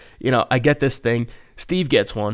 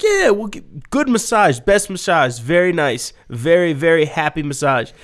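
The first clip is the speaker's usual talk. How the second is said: mock hustler pitch; 3 semitones higher than usual. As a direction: stretch out the sales pitch. Speaker's slow mock pitch.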